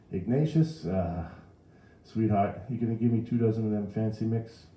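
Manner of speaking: coaxing New Orleans customer; chatty Mrs. Riley. A narrator's reading. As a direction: order from the counter in New Orleans style. Mrs. Riley orders cakes.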